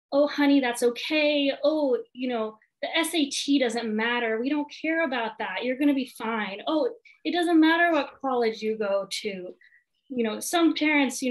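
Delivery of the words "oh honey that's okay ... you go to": a mildly raised, soothing parent's reassurance; reassuring parent. Retold or imitated. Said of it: "parent will jump in and try to fix it and say".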